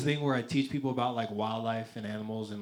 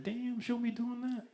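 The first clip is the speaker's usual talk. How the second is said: amused aside; 12 semitones higher, 4 dB quieter, slower than usual. Retold or imitated. His own reaction while watching.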